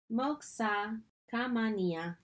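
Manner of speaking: slowly pronounced "Moxa Kamania"; measured, teacherly "Moxa Kamania"; careful pronunciation. Shown as a demonstration. First take of foreign phrase.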